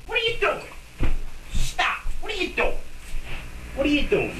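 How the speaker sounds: high, sharp scolding of the rabbit; scolding a pet. Real, not acted. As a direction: squeak it at a naughty pet.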